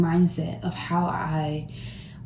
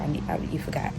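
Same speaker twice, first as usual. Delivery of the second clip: whisper; 2 semitones lower, 6 dB quieter, faster than usual. Real, not acted. Aside to someone off camera.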